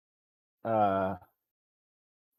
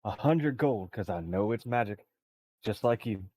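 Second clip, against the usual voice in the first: crooner-style charming voice; 4 semitones lower, 6 dB quieter than usual. Acted. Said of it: "an Elvis".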